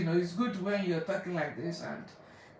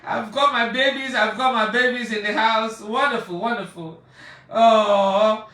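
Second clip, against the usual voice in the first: happy welcome; 7 dB louder than usual. Real, not acted. Still greeting the relatives.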